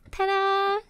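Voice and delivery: high, loud ta-da; big showy announcement to a guest; excited reveal. Acted. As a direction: present it like a magic trick. Revealing the fireplace.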